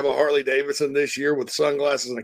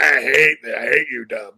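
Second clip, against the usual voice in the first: louder, quacky Donald Duck-style squawk on the quote; 4 dB louder than usual. Retold or imitated. Imitating his Ducks-fan buddy in a duck voice. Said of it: "you sounded like an actual Duck".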